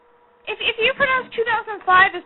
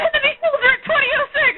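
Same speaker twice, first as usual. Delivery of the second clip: military code voice; 7 semitones higher than usual. Pretend. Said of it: "like you're reciting a military code".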